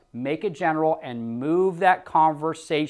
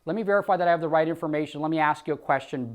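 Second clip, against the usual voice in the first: easy, friendly phone-agent answer; relaxed rep demo; natural sales reply. Shown as a demonstration. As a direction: sound natural and confident. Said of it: "See how natural that was?".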